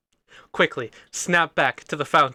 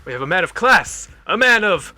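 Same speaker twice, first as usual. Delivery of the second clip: villain muttering aloud; 3 semitones higher, 4 dB louder than usual. Acted. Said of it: "talks to himself, but loud".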